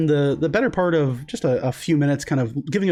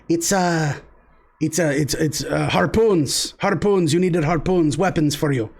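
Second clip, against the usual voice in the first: put-on young dock worker; 3 semitones higher than usual.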